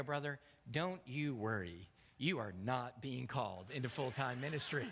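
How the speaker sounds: settled, calming answer after an outburst; dry reassurance. Retold or imitated. Pastor answers a worried young man, calmly reassuring. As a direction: bring it down and reassure him.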